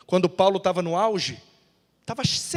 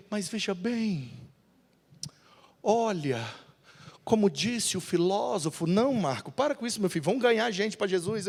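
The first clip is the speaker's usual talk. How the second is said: voz baixa e pensativa; 6 dB quieter than usual. Acted. Marcos reflexivo, depois Paulo.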